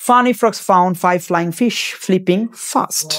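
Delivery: very slow, every f-sound drawn out, "Funny frogs found five flying fish flipping fast"; very slow tongue twister. Shown as a demonstration. Teacher slowly demonstrating the tongue twister, very slow. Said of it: "আবার দেখো".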